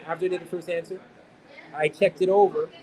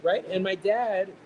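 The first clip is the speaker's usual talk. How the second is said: ordinary delivery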